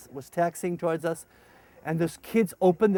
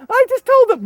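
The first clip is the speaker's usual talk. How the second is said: sheepish translator; 13 dB louder than usual. Retold or imitated. Translator answers.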